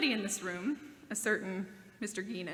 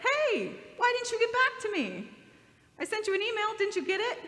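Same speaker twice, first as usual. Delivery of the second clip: higher, louder mock complaint; imitating a peeved friend; 10 semitones higher, 5 dB louder than usual. Friend complains he never got an answer to his email, mock irritation. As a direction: play the annoyed friend who got no reply. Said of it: "He could have said".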